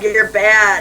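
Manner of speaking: lightly imitated grown-up telling off a toddler; mock scolding adult. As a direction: scold like a disapproving parent, mildly.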